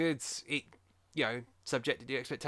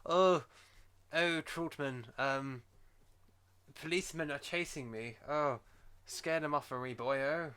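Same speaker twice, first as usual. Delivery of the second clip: mock posh Rambo; slower than usual. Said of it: "That's exactly how he spoke".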